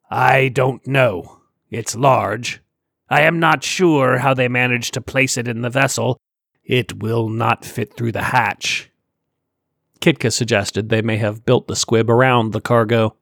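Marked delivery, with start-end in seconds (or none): 0.1-8.9 slow, heavy alien creature. Acted. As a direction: let each word drag like a big alien. Sar's alien voice.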